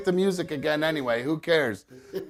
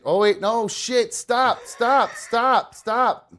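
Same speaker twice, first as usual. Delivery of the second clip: higher, urgent repeated "stop"; panicked; 7 semitones higher, 3 dB louder, much slower than usual. Real, not acted. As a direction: stop it in a hurry. Panics at countdown mix-up.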